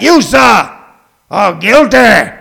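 loud judge, slowing on the verdict; commanding judge. Acted. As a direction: pronounce it like a judge to be obeyed. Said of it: "Listen to that dude's voice".

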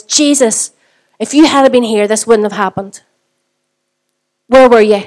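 pained reproach. Acted. Preacher voices grieving Mary confronting Jesus, pained reproach. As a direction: press the reproach, loudest on the last question.

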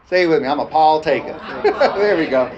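laughing through the line. Real, not acted. Preacher laughing as he gets the congregation to repeat, laughing. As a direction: laugh as you get them to repeat it.

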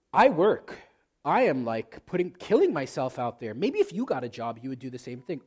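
loud, scornful put-down; contemptuous rant. Pretend. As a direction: berate your spouse with contempt. Contemptuous spouse in a quarrel.

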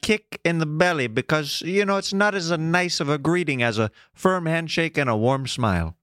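lightly imitated Canadian accent; mock Canadian accent. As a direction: pitch it like a polite Canadian, lightly. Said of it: "wildly offended by our accents".

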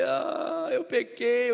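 high mock wail of guilt; exaggerated tearful whine; imitated crying. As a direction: wail the confession like a weeper. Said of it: "Ele começou a chorar e falou".

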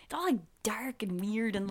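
hushed whisper. Real, not acted. Describing a dark film set to a friend, whispered. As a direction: whisper it like a secret about the eerie set.

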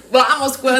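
put-on Ben Affleck's Mexican Spanish accent; a gringo doing Mexican Spanish. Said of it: "un mexicano que hable como Ben Affleck".

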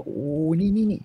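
ลากเสียงช้าๆ สูงขึ้นเล็กน้อย เหมือนพ่อโอ๋ลูก; ทำเสียงพ่อปลอบลูกช้าๆ; ปลอบแบบพ่อ. Retold or imitated. พ่อปลอบลูกในเรื่อง. (พ่อโอ๋ลูกที่ร้องไห้ ด้วยเสียงช้าๆ สูงขึ้น)

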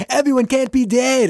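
high-pitched retold panic; mock going crazy. Base crew hears everyone is dead, high mock panic. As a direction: wail it high in mock disbelief. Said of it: "going crazy".

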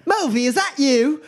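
high, slow call of recognition. Acted. Bystander spotting the magician, high calling out. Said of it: "you hear".

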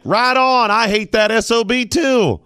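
imitating a snotty French gallery-goer in a French accent; mock snooty French accent. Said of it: "I probably shouldn't be that accent".

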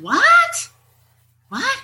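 baffled double what; bewildered what. Retold or imitated. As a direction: caught off guard, blurt it. Sudden confusion at husband laughing.

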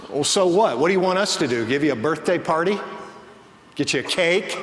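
a mild mock of a sneering jab; lightly voiced sarcasm, a touch mean; sarcastic mean retort. Retelling one woman mocking another's birthday, mildly sarcastic. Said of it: "said sarcastically, almost in a mean way".

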